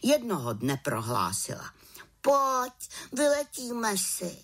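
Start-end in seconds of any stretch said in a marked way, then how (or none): 2.2-4.4 little witch, high and eager; a young witch coaxing her friend out, pitched high; high voiced little witch, keen to fly. Witch invites raven out.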